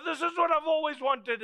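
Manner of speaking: high, loud delight, mimicked; excited child. Preacher mimics a child getting a gift, excited. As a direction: act out a child overjoyed with a present.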